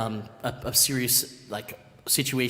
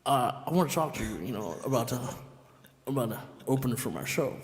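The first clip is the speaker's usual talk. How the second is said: a singer's voice; 5 dB quieter than usual. Retold or imitated. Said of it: "he's like".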